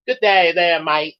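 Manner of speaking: laughing Australian sign-off; Australian accent. Acted. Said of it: "do with Australian accent".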